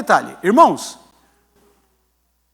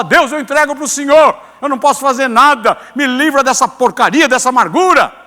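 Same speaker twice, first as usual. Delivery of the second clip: model prayer; 5 semitones higher, 8 dB louder than usual. Shown as a demonstration. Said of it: "É você falar".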